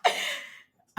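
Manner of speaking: laughing through the words, high and bright; teary laugh. Real, not acted. Guest laughing through her tears with the host, teary laugh. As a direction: laugh as emotion catches you.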